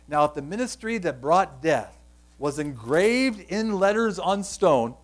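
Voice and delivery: measured scripture reading, drawing out the phrases; slow reading. Real, not acted. Preacher reads scripture to the congregation, slow and deliberate. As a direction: read it out slowly and deliberately. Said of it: "try to read it slow".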